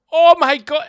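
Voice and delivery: shrieked high and loud in sudden fright; panicked shriek. Retold or imitated. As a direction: scream it like you've seen a monster. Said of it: "He shouted".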